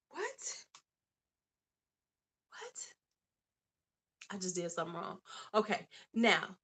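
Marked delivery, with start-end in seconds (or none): 0.1-2.9 sharply rising high little what; a soft, very high surprised what; startled what. Real, not acted. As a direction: react in quick disbelief. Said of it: "reacting to chat".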